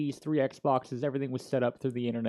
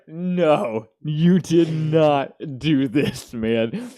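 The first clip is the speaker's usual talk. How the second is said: disbelief; 3 semitones higher, 9 dB louder, much slower than usual. Retold or imitated. Reacting to cops being called.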